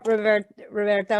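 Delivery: Roberto said with weak untrilled r's; says w for r. Real, not acted. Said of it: "I can't say my R's".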